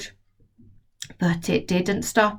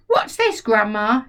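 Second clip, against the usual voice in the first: put-on boy shouting. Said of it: "he shouted".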